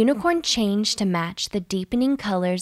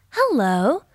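cheery, friendly hello; bright greeting; 4 semitones higher than usual. A narrator's reading. Lily greets the little tortoise brightly. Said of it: "Lily said brightly".

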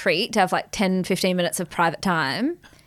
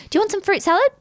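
imitating mum's friend; faster than usual. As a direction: gush about the garden fruit. Mum's friend voiced, high and chatty.

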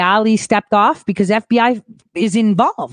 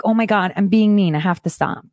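usual speaking voice

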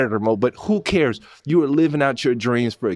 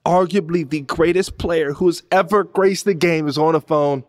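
awestruck excitement; 6 semitones higher than usual. Real, not acted. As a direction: build disbelief as Jordan comes on. Awe at Jordan calling.

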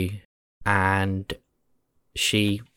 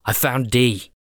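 Nettles; 3 semitones higher than usual. Acted. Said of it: "Nettles pops into your head".

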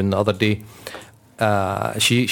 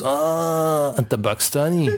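drawn-out, higher "ah" of mock realisation; imitated border guard; 5 semitones higher, slower than usual. Border guard learns traveller's father is Pakistani, mock realisation. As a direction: playfully mimic the guard's long dawning reaction. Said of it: "my dad was from Pakistan. He goes".

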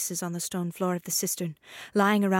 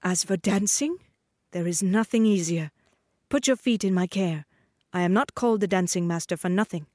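a lightly voiced, smooth dancing master. Dancing master luring the girl into the maze, lightly voiced smooth charm. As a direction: coax her like a courtly tutor.

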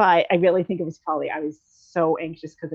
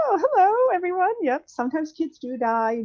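mock sassy announcement, high; 10 semitones higher than usual. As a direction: imitate a sassy little girl. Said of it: "And she's like".

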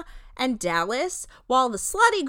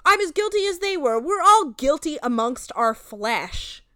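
raised, loud moralizing imitation, slowing at the end; mock confession; 4 semitones higher, 5 dB louder than usual. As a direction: imitate a solemn admission of guilt. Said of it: "he goes".

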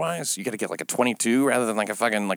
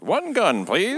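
mock polite request; 9 semitones higher, much slower than usual. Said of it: "Is it".

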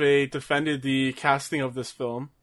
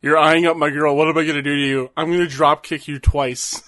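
mock wrestler threat; 6 dB louder than usual.

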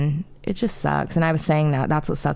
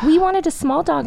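put-on whiny kids; 12 semitones higher than usual. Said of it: "the girls were like".

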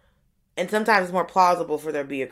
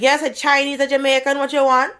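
brisk, louder and higher impatient shopkeeper; Jamaican lady at the register; 7 semitones higher, 5 dB louder than usual. Retold or imitated. Jamaican restaurant lady to a new customer, impatient and loud. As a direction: hurry the customer along, sharp and loud. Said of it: "And she's like".

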